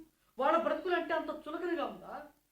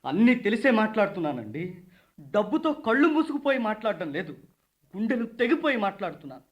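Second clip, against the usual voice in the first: heated protest; 4 semitones lower, 4 dB louder than usual. Acted. Grieving man confronts rich household.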